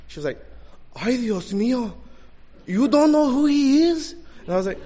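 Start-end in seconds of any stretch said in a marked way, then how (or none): 1.0-4.1 high, loud mock disbelief; shocked woman. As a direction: imitate a scandalized Mexican lady, rising to a shrill-pitched cry. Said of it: "She was shocked".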